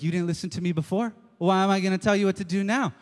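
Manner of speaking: fast, exasperated brush-off. Retold or imitated. Friend brushing off the buddy who didn't listen. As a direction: rattle it off, fed up. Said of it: "And you're like".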